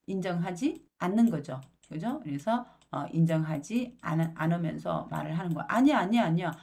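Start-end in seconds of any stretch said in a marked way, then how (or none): 5.7-6.5 loud, higher panicked no no no; frantic denial. Acted. Peter to the servant girl, loud panicked denial. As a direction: deny it in a rush of panic.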